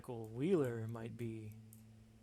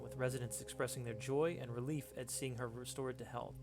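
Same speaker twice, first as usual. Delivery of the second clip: lightly voiced vintage radio news read; 1920s newscaster voice. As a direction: read the article like an old-time newsman. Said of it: "newscaster voice".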